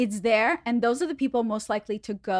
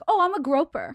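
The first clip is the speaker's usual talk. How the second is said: mock groper voice; 5 semitones higher, 4 dB louder than usual. Imagined groper line, mocking.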